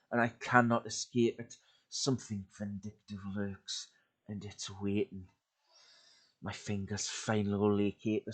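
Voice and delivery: tense, dramatic horror story narration. A narrator's reading. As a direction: read it like a creepy campfire tale. Reads horror story aloud.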